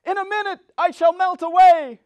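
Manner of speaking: high, loud melting cry; panicked witch. Acted. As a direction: wail as she starts to melt.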